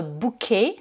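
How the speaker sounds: "bouquet" said the French way, silent final t; French-style pronunciation. Shown as a demonstration. Teacher shows learners the borrowed word, "bouquet" pronounced à la française. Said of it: "on le prononce, euh, à la française".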